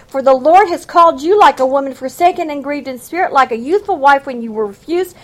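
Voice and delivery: fast preacher's read-through of scripture; fast, rising reading. Shown as a demonstration. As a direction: read it through fast, building with each phrase. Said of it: "I repeated that all in one reading so you'd see how that fit together".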